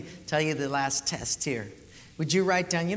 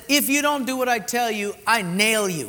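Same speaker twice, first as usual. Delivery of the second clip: stern God voice; 5 semitones higher, 6 dB louder than usual. Acted.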